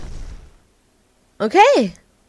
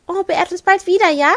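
higher, sugary shop-lady voice; sweet shopkeeper voice; 7 semitones higher, 4 dB louder than usual. Pretend. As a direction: play the fussing shopkeeper who calls you Liebchen. Voicing shopkeeper farewell.

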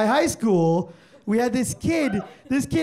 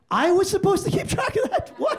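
shocked; 9 semitones higher than usual. Retold or imitated. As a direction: blurt it out in total shock. Shocked by question on billed hours.

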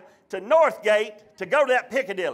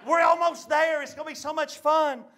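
mock-excited mama, raised pitch; cheering up; 5 semitones higher than usual. Mama reassuring the family on the drive, cheering up. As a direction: lift it into mama's encouraging chirp. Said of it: "tried to make it all better".

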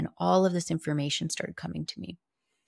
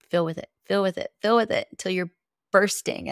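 urging, building; 3 semitones higher, 4 dB louder than usual. Retold or imitated. Inner voice urging her to fill.

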